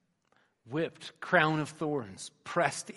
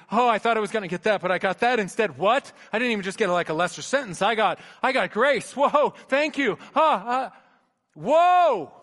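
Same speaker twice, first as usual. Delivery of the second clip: overwhelmed amazement; 8 semitones higher, 10 dB louder than usual. Acted. Acting out overwhelmed gratitude.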